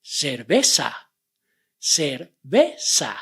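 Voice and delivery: "cerveza" slowly with pure e, e, a; clear vowel drill. Shown as a demonstration. Teacher drilling "cerveza" for students. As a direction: say "cerveza" slow, even vowels. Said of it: "E E A".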